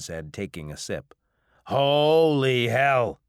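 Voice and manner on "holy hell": slow, loud, high exclamation; stunned. Acted. Mangy drinker after a first sip, loudly amazed. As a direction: draw it out, bowled over by the drink.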